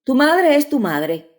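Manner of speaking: wife proudly answering her husband; proud reply. A narrator's reading. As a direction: answer him with slow pride. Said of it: "le dijo mirándole orgullosamente".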